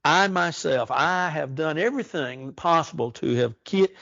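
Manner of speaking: "I myself" leaned on and lifted in pitch; emphatic I. Shown as a demonstration. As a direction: hit "I" hard each time, insisting it was me. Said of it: "is emphatic here".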